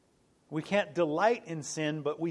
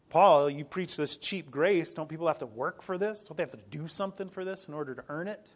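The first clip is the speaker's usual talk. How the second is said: objector's voice; 5 dB louder than usual. Retold or imitated. Preacher voicing critics who accuse Paul of preaching cheap grace. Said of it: "the one side would argue".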